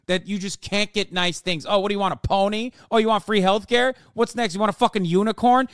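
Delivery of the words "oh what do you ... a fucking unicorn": higher, louder sneering questions; condescending mockery. Mock politician belittling voters, sneering. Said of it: "condescendingly telling their fucking voters".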